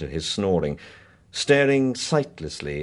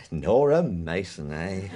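sly chuckle; slower than usual. Acted. Heine laughing over the name.

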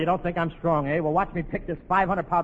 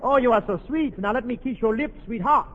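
French lover; 5 semitones higher than usual. Acted. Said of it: "I'm Charles Boyer".

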